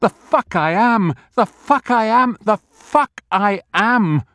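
high, loud fierce repeated defiance; defiant outburst. A narrator's reading. Jerry roaring his defiance in the street, high and loud. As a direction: fling it back, triumphant and furious. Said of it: "muttering his private motto".

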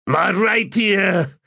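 drawn-out anguished moan, slow. A narrator's reading. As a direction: mourn the lost blade aloud. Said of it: "he moaned".

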